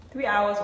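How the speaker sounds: Three hit loud in disbelief; stress on three. Real, not acted. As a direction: lean hard on Three. Repeats the long cooking time, louder.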